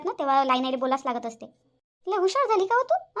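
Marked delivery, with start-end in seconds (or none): 2.1-3.2 high, slow mocking question; scornful mother mocking her daughter's backtalk; sarcastic jab. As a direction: drag it out high to mock her cleverness. Mother scolds cheeky daughter.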